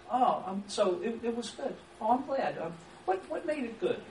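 simple, friendly follow-up; open question demo. Shown as a demonstration. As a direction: show interest and ask gently. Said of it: "that's just an open-ended, simple question".

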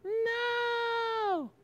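long, high mock wail; soft, very high drawn-out cry; child's protest. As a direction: whine it out like a kid losing a toy. Child losing iPhone, acted.

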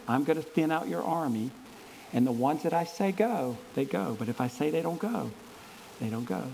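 God instructing Gideon, low and soft. Acted. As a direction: speak as God, calm and measured.

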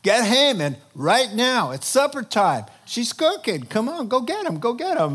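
loud urgent command; king's loud order. Retold or imitated. King ordering an attendant to fetch Haman, loudly. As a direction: hurry the servant along, calling loud. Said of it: "and he says".

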